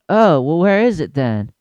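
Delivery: a hint of a huffy mom; mimicking the mom; mock mom. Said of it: "she's like".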